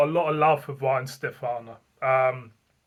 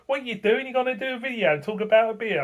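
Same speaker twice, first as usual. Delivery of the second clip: higher-pitched incredulous wife, a bit quicker; imitating wife; 7 semitones higher, faster than usual. Wife baffled he'll film a beer review, higher mock incredulity. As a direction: mimic a baffled wife questioning him. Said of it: "And Missus B looked at me".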